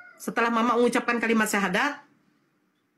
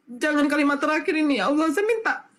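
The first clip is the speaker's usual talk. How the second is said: retold anguished plea; 3 semitones higher than usual. Recalling her desperate prayer for mother.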